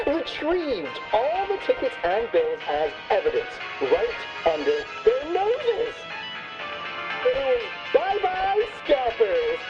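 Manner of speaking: high, excited climax of the tale; gleeful storytelling. Acted. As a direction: soar up high in triumph. Guest excitedly tells triumphant climax.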